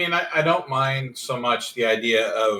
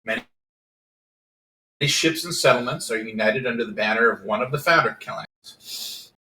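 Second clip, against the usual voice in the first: reading the setting aloud; steady, measured rulebook read; game master narration. Acted.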